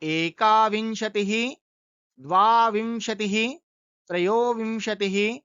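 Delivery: slow, deliberate counting; teacher counting twenty-one to thirty slowly; slow recitation. Shown as a demonstration. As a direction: recite एकाविंशतिः to त्रिंशत् slowly. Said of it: "ऐसे ही".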